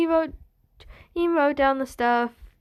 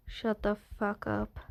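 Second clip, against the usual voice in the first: menacing quiet; 2 semitones lower, 9 dB quieter than usual. Acted. Dream snaps at her menacingly.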